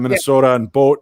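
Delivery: long Minnesotan O in MINNESOTA and BOAT; Minnesotan accent. Shown as a demonstration. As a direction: demonstrate Minnesotan vowels on BOAT. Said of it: "that's the Minnesotan slip in".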